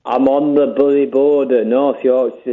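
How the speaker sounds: lightly put-on Yorkshire voice; funny voice. Caller posing as a Yorkshireman, funny voice. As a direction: insist on the disguise. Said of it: "doing a funny voice".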